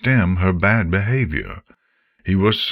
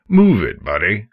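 gruff passerby; 2 semitones higher, 4 dB louder than usual. Acted. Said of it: "A few muttered things like".

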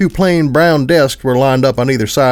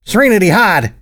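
scream; 7 semitones higher than usual. Acted. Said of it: "I screamed".

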